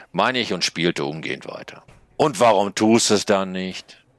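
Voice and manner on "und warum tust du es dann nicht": high, loud snail yell; little snail shouting at the writer. A narrator's reading. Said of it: "schreit sie mich an". (laut schreiende Schnecke)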